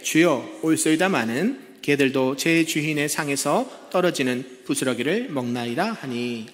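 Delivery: slow, measured Bible reading; scripture reading. Acted. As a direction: read the verses slowly and solemnly. Reads scripture aloud.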